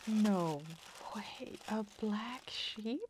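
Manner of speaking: slow, drawn-out amazement; can't believe the black sheep; surprised. Real, not acted. Unboxing a gift from a viewer, slow delighted surprise.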